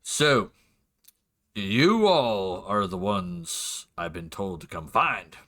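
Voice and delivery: slow, southern drawl as a hired hunter; southern gunslinger drawl, unhurried. Acted. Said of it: "Just give me a second".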